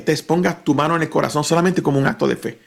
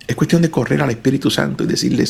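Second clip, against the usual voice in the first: ordinary delivery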